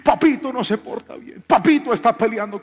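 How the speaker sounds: high, complaining teacher's voice; mock the fussy teacher tattling; mimicking teacher.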